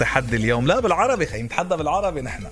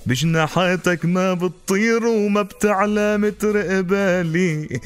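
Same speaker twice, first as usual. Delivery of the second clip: chanted folk poetry, stretched line ends; zajal recitation; slower than usual. Acted. Zajal verses continued. (إلقاء زجل)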